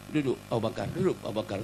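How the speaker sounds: low, restrained voice; calm command. Acted. The Prophet tells Abu Bakar to sit, calmly.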